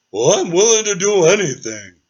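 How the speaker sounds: lightly voiced dragon keen to help; eager dragon.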